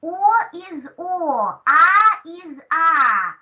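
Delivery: O and A held long and full; slow, drawn-out "O is O, A is A"; full vowel quality. Shown as a demonstration. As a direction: stretch "O" and "A" into clear, unreduced vowels. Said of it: "they preserve their full quality".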